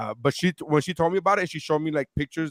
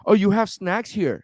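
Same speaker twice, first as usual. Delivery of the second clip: mock sly friend; 6 semitones higher, 4 dB louder, slower than usual. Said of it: "And she's like".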